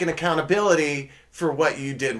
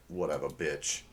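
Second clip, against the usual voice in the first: attitude; 10 semitones lower, 11 dB quieter than usual. Pretend. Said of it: "I like that girl's attitude".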